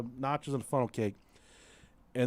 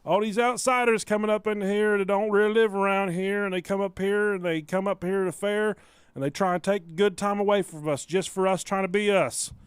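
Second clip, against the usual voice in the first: the offended local ranting about outsiders, a bit higher; hillbilly rant; 4 semitones higher than usual. Retold or imitated. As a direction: ramble like a blubbering local. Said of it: "He said".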